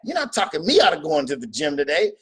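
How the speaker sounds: a defiant mock shout at the inner tempter; defiant retort. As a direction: tell the devil voice off, then stand firm. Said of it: "You gotta get strong at saying".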